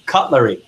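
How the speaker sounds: "Cutlery" modelled firmly for repeating; careful pronunciation. Shown as a demonstration. Coach models a word for the trainees, careful pronunciation. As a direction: say "Cutlery" clearly, with its L. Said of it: "Repeat after me".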